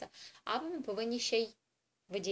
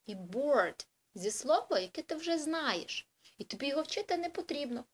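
put-on patient teacher to child; 3 semitones higher than usual. Shown as a demonstration. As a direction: coax a small child through it. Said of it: "Ми кажемо, дивись".

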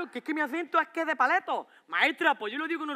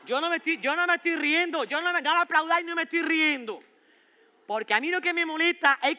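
put-on indignant teen; 5 semitones higher, 3 dB louder than usual. Teen voice, high and loud.

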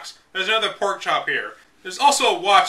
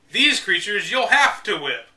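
slowed, pressed emphasis on "whip"; italic emphasis; 3 semitones higher than usual. Shown as a demonstration. Reading italicized guide text to viewers, emphatic. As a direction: lean on "have to whip" as if italicized. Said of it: "With italics for emphasis there".

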